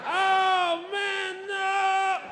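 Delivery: high, drawn-out wail; slow, high mock despairing yell; mock anguished cry. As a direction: howl it in hammed-up defeat. Acts guard's thwarted despair.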